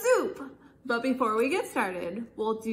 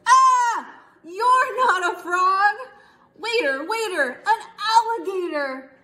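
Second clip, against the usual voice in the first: high loud alarmed cry; hammed-up startled scream; panicked scream; 6 semitones higher, 4 dB louder than usual. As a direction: shriek in fright at the alligator. Customer panics at alligator.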